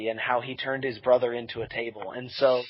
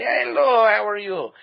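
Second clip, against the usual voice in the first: put-on voice; 8 semitones higher, 7 dB louder than usual. Friend answers in put-on voice.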